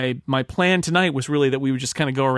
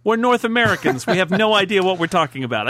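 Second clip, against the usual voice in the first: mock outburst; 5 semitones higher, 4 dB louder than usual. Mock disclaimer shout.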